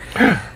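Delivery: mock gasp. Shocked reaction to secret revealed.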